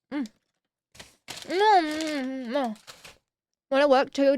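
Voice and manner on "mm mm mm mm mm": chewing a cheese twist; mouth full. Real, not acted. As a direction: hum through a mouthful. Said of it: "take a bite out of it".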